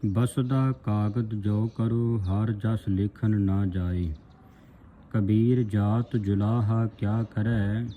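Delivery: slow, measured verse reading; scripture recitation. Shown as a demonstration. Teacher reads Kabir's saloks for the congregation, slow recitation. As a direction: draw the vowels out, reciting evenly.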